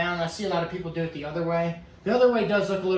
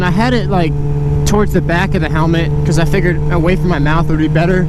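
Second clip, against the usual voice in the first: inside a helmet; 14 dB louder than usual. Real, not acted. Riding moto vlog in helmet mic.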